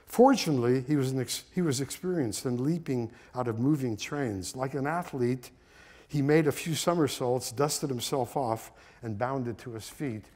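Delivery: measured read-aloud storytelling; story narration. A narrator's reading. Son reading his father's story to listeners, measured narration. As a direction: read the memoir passage with deliberate phrasing.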